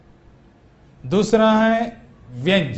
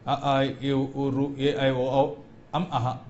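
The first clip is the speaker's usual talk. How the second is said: vowels muttered softly and rushed together; a limp, quiet run of vowels; mumbled vowels; 4 semitones lower, 7 dB quieter, slower than usual. Shown as a demonstration. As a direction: show the wrong, careless way under your breath. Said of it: "ये नहीं".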